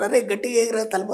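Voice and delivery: put-on a mildly sharp command to a child, stress on అరే; harsh scolding parent. Shown as a demonstration. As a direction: snap lightly at the kid about the door. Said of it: "ఇప్పుడు మీరైతే ఏం చెప్తారు?". (పిల్లాడిని కొంచెం కోపంగా గద్దించడం)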